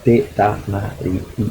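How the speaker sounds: Te tamari, a pause, then i; slow Tahitian. Shown as a demonstration. Lecturer isolating the final vowel for students, slowly. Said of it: "jamais de groupe de consonnes".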